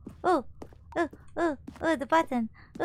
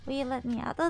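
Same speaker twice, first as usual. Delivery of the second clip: ordinary delivery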